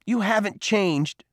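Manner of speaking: high, slow accusation; pointed, angry rebuke; challenging. A narrator's reading. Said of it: "his voice growing louder".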